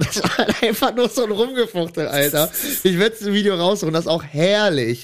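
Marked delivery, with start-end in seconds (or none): 0.0-2.1 lachend. Real, not acted. Lacht über das Gefuchtel.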